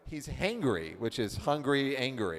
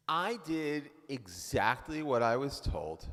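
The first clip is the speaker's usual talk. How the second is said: obedient wife; slower than usual. Acted. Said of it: "Let's be the wife".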